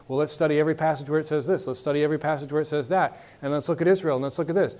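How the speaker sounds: fast, tumbling eager plans; mock eager excitement. Excited Bible students planning studies, fast mock eagerness. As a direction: rattle off the plans in a rush. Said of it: "people get all excited".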